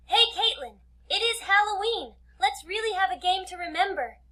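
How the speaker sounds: high, loud flirty invite. Acted. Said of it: "I wink at her suggestively".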